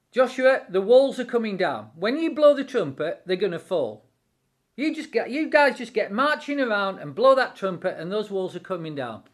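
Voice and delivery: rising commanding voice of God. Acted. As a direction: proclaim it like God giving orders. God voiced speaking to Joshua.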